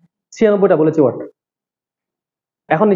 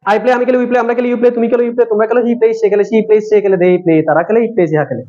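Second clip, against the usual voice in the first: faster drill. Shown as a demonstration. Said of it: "আর একটু স্পিডে বলবো".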